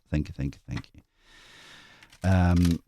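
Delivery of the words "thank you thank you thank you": fading thanks. Real, not acted.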